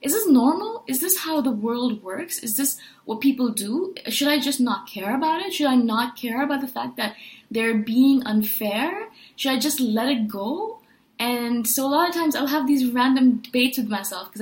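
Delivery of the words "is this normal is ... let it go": anxious self-doubt. Retold or imitated. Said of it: "I'm thinking to myself".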